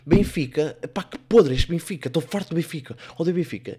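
fed-up, loud exasperated outburst; angry fan ranting. Acted. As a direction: curse your losing team at the TV. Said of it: "a mulher deve estar assim".

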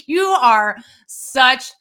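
slow, emphatic accusation; slow-burning outrage; mad. Real, not acted. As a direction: spell out the accusation word by word in real anger. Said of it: "so mad at you right now".

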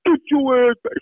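high, fast mock bark of an older player; bossy senior lineman. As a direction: play the senior ordering the freshman back. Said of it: "he said".

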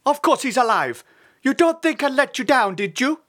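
high, loud, boastful bird dad; proud, emphatic reassurance; proud father. A narrator's reading. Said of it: "said his father proudly".

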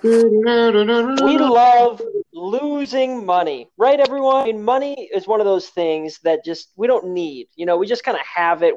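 cheesy spokesman selling a website; ad read. Pretend. Mock ad for betting site.

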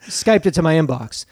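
hardboiled noir narrator. Pretend. Noir pastiche of a dame.

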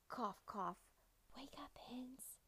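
unvoiced hushed whisper. A narrator's reading. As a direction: whisper so the hens stay asleep. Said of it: "Rooster whispered".

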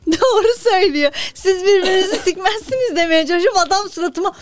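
talking high and loud through laughter; laughing. Real, not acted. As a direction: barely get words out laughing. Laughing hard after a joke.

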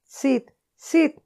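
loud high shout to wake him; shouting his name. Acted. Tom shouting to wake his sleeping brother Sid, loud and high. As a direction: yell to rouse a sleeping brother. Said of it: "Le sacudió gritándole".

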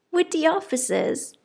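high, loud surprised cry; excited cry. A narrator's reading. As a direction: Lydia thrilled at officers. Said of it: "cried Lydia".

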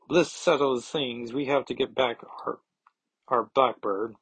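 badly faked German accent; hammy attempt at a German accent; horrible German accent. Nightcrawler wants the Blackbird back, horrible mock German accent. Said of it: "It's a horrible German accent".

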